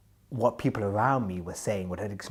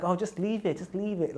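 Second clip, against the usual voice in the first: dismissive guard; 10 semitones higher than usual. Retold or imitated. Guard brushing off the request.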